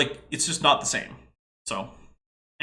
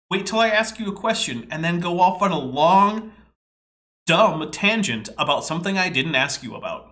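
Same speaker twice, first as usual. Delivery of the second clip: annoyed; 3 semitones higher, 4 dB louder than usual. Real, not acted. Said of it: "If you ever want to annoy me".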